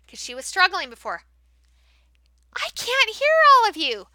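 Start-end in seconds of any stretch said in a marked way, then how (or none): 2.5-4.1 higher-pitched playful coaxing; coaxing call. Shown as a demonstration. Teacher asking the class to speak up, coaxing. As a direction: draw the class out. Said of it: "I like to use a microphone".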